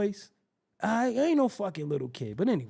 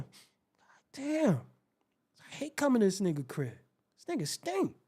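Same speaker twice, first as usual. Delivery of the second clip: muttered disgust; 4 dB quieter than usual. Acted. Muttered disgust visiting friend.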